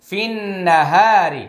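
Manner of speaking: ফিন না হা রি with sustained nn and stretched হা; wajib ghunna. Shown as a demonstration. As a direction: hold the doubled n in ফিন না as a hum. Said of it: "এটা ওয়াজিব গুন্না".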